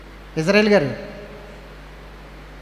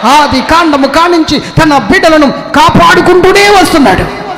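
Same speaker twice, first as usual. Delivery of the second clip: from firm to high, loud exultant cry; rising, shouted revival preaching; preaching building to full force; 4 semitones higher, 7 dB louder than usual. Acted. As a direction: build the sermon to a roaring peak.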